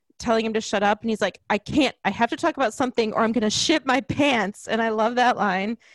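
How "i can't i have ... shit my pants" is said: normal talking voice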